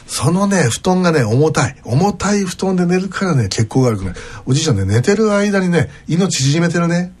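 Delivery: playing a sly salesman who flatters a grandpa; smooth salesman to grandpa. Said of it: "とかって言いながら".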